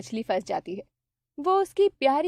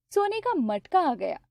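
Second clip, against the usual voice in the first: ordinary delivery, nothing marked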